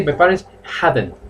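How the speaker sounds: "Hadn't" marked as the missing word; teacher corrects the student on "Hadn't"; stress on hadn't. Shown as a demonstration. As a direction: hit hadn't clearly. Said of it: "but you have to say".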